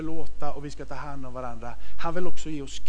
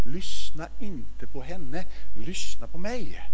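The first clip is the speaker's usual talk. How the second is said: calm assurance; slower than usual. Retold or imitated. Pappa lugnar barnen.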